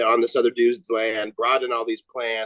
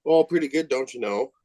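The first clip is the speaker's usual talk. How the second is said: put-on playful Minnesota accent, starting high; 3 semitones higher than usual. Buddy plays along with the host's greeting, Minnesota accent. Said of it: "your fucking Minnesota accent".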